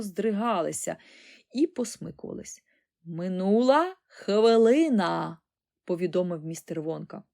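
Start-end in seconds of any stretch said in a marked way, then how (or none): 3.0-5.4 slow, loud time call; drawn-out announcement. A narrator's reading. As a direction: announce it slowly and grandly. Timekeeper announces the countdown.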